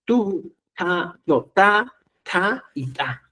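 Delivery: "ta" said three different ways, the last ones slowly; three kinds of ta. Shown as a demonstration. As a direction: contrast the variants of the sound. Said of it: "Tres maneras de producir este sonido". (tres variantes de "ta", la última despacio)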